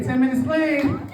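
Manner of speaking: "Ten minutes clean" called out to the crowd. Shown as a demonstration. Bragging to the crowd about staying clean, called out. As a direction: sell "clean" like a proud shout-out. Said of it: "Clap it up for me".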